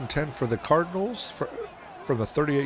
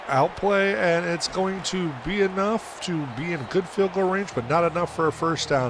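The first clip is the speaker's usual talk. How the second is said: excited; 5 semitones higher than usual. Real, not acted. Big run in play-by-play.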